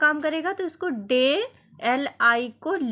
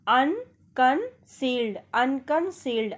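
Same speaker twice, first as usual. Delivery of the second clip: slow, drawn out; slower than usual. Shown as a demonstration. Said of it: "हम पढ़ेंगे इसी तरीके से".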